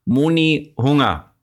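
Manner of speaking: a hint of a toddler asking for food; toddler's baby talk. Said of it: "Vorher sagst du".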